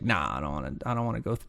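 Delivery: mock reluctant grumble; reluctant mumble. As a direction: mumble it like someone who won't step in. Reluctant person at forest edge.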